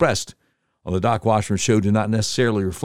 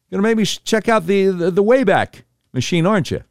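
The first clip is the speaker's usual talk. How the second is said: pitched way up, whining; high exasperated whine; 8 semitones higher than usual. Real, not acted. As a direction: complain in a high mock whine. Mock complaint to cohost.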